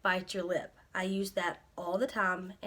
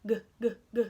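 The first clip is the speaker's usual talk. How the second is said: gulping G sounds; much faster than usual. Shown as a demonstration. Teacher to student, gulping G sounds. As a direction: gulp each G like a drink. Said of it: "And you can even".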